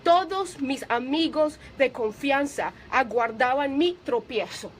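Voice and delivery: slow, weighty reading of the verse; solemn scripture reading. Acted. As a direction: read the psalm slowly, with gravity. Reads psalm slowly, preaching. (lectura solemne y pausada)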